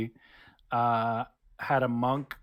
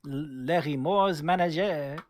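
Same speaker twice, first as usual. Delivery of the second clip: put-on French accent; 2 semitones higher, slower than usual. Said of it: "in Clavier's accent".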